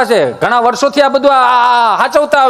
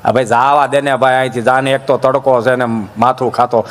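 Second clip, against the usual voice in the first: put-on annoyed old villager; 8 semitones lower than usual.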